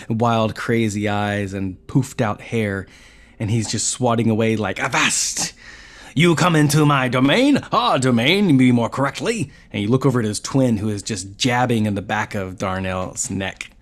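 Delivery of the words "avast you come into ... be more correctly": high, loud little brownie voice; squeaky indignant fairy; pixie. Acted.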